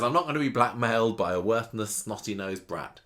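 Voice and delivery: retorts with a mild sneer; a lightly acted put-down, slowing on the insult; understated telling-off of a brat; mock scolding. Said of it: "Daisy says".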